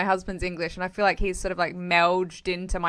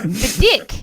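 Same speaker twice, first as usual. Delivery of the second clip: put-on New Zealand accent; 3 semitones higher, 6 dB louder than usual. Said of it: "she was like".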